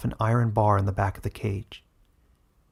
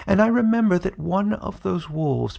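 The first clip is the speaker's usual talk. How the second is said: cruel taunt; 8 semitones higher than usual. Acted. Villain taunts wolf cruelly.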